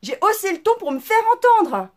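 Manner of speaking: voix plus haute et plus forte, jouée; imitation de la CPE. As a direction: singer sa justification d'un ton faussement digne. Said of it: "Je fais". (la mère imite la CPE qui se défend)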